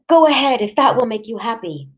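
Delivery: high-pitched, defiant mother; bitter defiance. A narrator's reading. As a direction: dare him, starting loud and easing off. Mother defies father's threat in quarrel.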